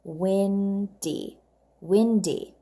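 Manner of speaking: Windy split into two clear beats, win-dy; windy, slow with both syllables marked; syllable counting. Shown as a demonstration. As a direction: tap out each syllable of windy. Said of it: "How many syllables?".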